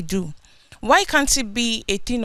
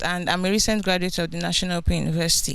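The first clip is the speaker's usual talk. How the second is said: speaking up; faster than usual. Real, not acted. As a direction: raise your voice to be heard. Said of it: "Can you speak up, please?".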